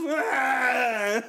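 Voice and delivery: sharp mock pained yelp of a toddler; imitated toddler yelp. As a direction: yelp like a kid who just broke his ankle. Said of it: "he sounds like me when".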